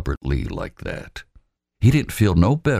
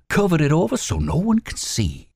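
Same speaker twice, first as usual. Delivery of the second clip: higher, out of breath from running; breathless; 13 semitones higher than usual. Acted. Robert Lee to Wallace, breathless from the run. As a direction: gasp out the report.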